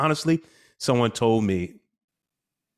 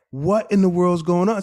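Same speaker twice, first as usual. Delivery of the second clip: baffled outburst; 9 semitones higher, 8 dB louder than usual. Retold or imitated. Father's baffled reply.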